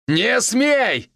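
high, sharp forbidding yell; bellowing. A narrator's reading. Evgen yelling at Dasha on the phone, a high forbidding shout. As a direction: shout her down hard. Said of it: "заорал Евген на всю машину".

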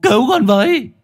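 gào lên thống thiết; anguished cry. A narrator's reading. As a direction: cry out to parents in despair. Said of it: "y gào lên thống thiết".

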